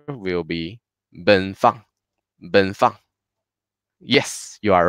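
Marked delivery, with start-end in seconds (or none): 1.1-3.0 level "Ben", short falling "Fang"; first plus fourth tone. Shown as a demonstration. Teacher puts the syllables together, level "Ben", falling "Fang". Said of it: "Fang is the fourth tone".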